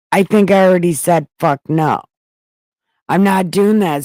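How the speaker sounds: loud, fast, fed-up snap; exasperated refusal. Acted. Medium refusing Saul's request again, loud and exasperated.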